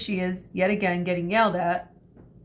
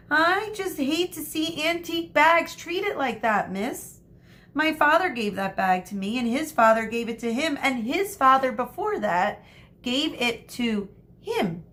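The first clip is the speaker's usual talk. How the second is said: put-on higher, lightly whining girl; light whine; 6 semitones higher than usual. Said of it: "lightly whined".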